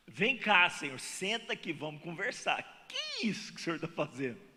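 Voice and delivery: mock indignant talk with God, pitch jumping up on the questions; arguing with God. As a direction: play the man pushing back at God, half joking. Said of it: "eu ia começar uma conversa séria com Deus". (falando com Deus em tom de discussão brincalhona)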